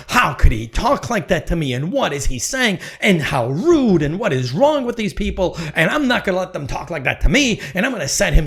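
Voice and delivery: mock outrage at rude people; indignant rant. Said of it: "I can sit there and go".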